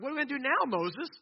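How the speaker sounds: high, loud grumble at Moses; grumbling. Acted. Thirsty people confront Moses over water, grumbling. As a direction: demand answers from the leader, dropping on the name. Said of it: "the people grumble against Moses".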